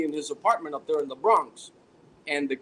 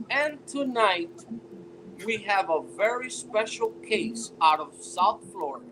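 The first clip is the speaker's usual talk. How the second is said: TV host impression. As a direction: announce the case like a crime-show host. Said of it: "the first thing this dude says is".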